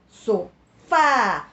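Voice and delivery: Sofá broken after So, then a loud, drawn-out fá; Sofá in two beats, the second long and strong; stressed last syllable. Shown as a demonstration. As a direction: hold the open á at the end of Sofá. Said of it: "Última sílaba mais forte".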